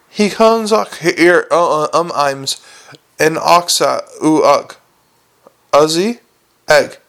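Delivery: consonants dropped, gaping mouth; open-mouthed gargoyle. Acted. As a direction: speak without closing lips.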